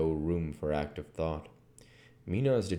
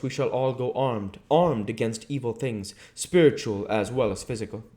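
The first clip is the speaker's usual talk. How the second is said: put-on higher, louder voice of a learned old professor; Van Helsing; 7 semitones higher, 5 dB louder than usual. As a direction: lay out the plan like a stern, careful professor. Van Helsing continues his plan.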